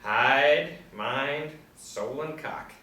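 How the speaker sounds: booming proud proclamation; grand declaration. Acted. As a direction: announce it like a hero. Boastful proclamation.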